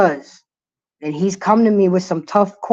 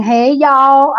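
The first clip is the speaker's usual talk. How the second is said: put-on higher drawl in the viewer's accent; imitated viewer's accent; 4 semitones higher, 4 dB louder than usual. Host reading a commenter's greeting, imitating her accent. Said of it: "I could hear her little accent".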